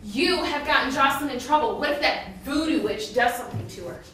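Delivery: heated, loud accusation; yelling. Acted. Accusing him over Jocelyn's trouble, yelling. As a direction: keep berating him. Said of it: "You're yelling at me".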